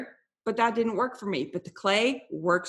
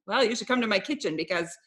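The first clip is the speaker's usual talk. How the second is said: laughing reply; 3 semitones higher, 4 dB louder than usual. Retold or imitated. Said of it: "I'm like".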